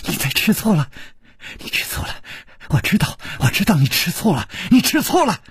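silly, breathy tittering taunt; besotted teasing, rising at the end; giddy laughing. Acted. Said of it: "他痴痴地笑起来了".

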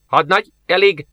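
an officer snapping a stop order. Acted. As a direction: cut her off sharply. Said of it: "csattant fel Jerisov".

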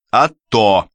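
cocky, insolent answer; a son-in-law answering his in-laws insolently; brazen retort. Acted. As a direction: throw it back brazenly. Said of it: "пренагло отвечал Аверинцев".

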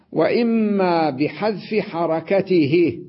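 وإما بحذف حركته dragged out, stress on وإما; وإما leaned on, then بحذف حركته slow; slow emphatic rule. Shown as a demonstration. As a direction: spell the rule out slowly. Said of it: "teacher stressing the rule".

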